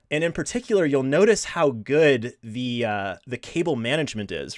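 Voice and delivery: deadpan mock admiration; sarcastic. Real, not acted. Host showing viewers the messy home lab, sarcastic. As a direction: praise it as if truly impressive, tongue in cheek. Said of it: "I'm, I'm being sarcastic".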